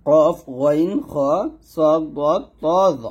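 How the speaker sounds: কফ, গইন, খ each held long, heavy and rounded; thick heavy letters. Shown as a demonstration. Teacher reads out the seven letters, thick and deliberate. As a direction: recite the letters one by one with a thick sound. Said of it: "এই সাতটা হরফ সবসময় মোটা হবে".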